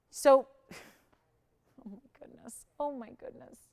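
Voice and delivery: slow laughing sigh, fading away. Real, not acted. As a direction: laugh it off, trailing to nothing. Laughing at the bid chaos.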